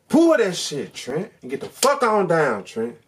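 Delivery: sudden loud, high yell; shouted urging. Retold or imitated. Viewer coaching Trent's getaway, high urgent shout. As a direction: burst out yelling the escape order.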